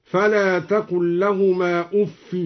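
أف said "uffi", no final n; no tanwin on أف. Shown as a demonstration. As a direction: drop the nunation from أف. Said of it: "بحذف التنوين".

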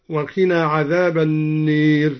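النير with the long a leaned toward e; imala on النار. Shown as a demonstration. Reciter demonstrates Duri's imala on النار, tilted vowel. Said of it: "وأمال النار".

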